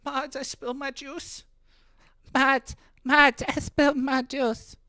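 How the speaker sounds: mock whining streamer. Mocking a streamer crying to her mods, high wail. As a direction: cry to mods like a spilled-juice toddler. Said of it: "And she's like".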